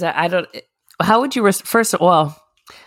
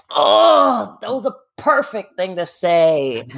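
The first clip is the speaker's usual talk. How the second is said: high whimpering regret; mock cry over missed chance; 5 semitones higher, slower than usual. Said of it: "I'm like".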